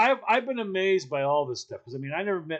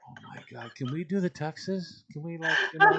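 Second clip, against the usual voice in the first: exasperated clerk. Retold or imitated. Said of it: "And you're like".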